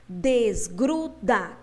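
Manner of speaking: "desgruda" slowly broken into three beats; measured three-beat "desgruda"; split into syllables. Shown as a demonstration. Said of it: "três, tem três partes".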